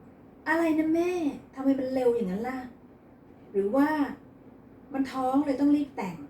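high, loud startled outburst; shocked loud. A narrator's reading. Son hearing sister's wedding news, loud shocked outburst. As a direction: blurt it out in alarm. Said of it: "อัสมาตกใจพูดเสียงดัง".

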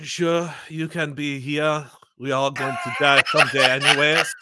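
lightly put-on French accent, unhurried; French Shrek. French ogre grudgingly letting someone stay, mock French accent. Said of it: "French Shrek".

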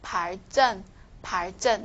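"正" in "발正" said as a tight, tense affricate; tensed consonant. Shown as a demonstration. Teacher showing the tensing rule, "正" in "발正" tensed. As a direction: model "발正" with a tensed "正". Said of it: "这个都是要变成紧音化的".

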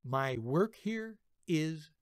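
slow, quiet, satisfied; smug inner thought. Retold or imitated. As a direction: savor it quietly. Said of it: "thinking to myself".

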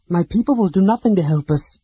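loud, high, angry Silvara; angry report. A narrator's reading. Silvara reports the refusal to the companions, angrily. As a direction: spit out the bad news, furious. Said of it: "Silvara's was flushed with anger".

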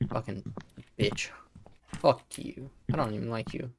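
whispering. Acted. Muttering at in-game wife.

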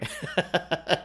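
breathy burst of laughter at own joke. Real, not acted. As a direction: laugh it off lightly. Laughs at Topi pun.

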